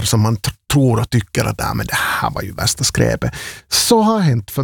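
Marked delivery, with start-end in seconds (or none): 1.6-3.3 hushed, breathy throwaway verdict; softly voiced imagined snub; mock dismissive whisper. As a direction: whisper it like a private sneer. Imagined dismissive inner thought.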